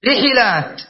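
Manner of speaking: رحلات as ri-ḥi-lāt, i echoed after ḥ; middle vowel i. Shown as a demonstration. Teacher lists allowed plurals, رحلات as ri-ḥi-lāt. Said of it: "أو تقول رحلات".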